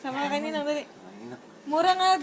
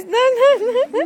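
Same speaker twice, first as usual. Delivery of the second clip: loud no; 8 semitones higher, 9 dB louder than usual. Real, not acted. Stopping pet, loud.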